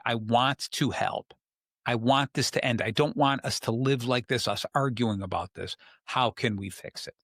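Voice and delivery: calm, relaxed demonstration; showing a partner how to stay calm. Shown as a demonstration. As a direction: say it evenly, no heat. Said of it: "you've gotta say it in a calm way".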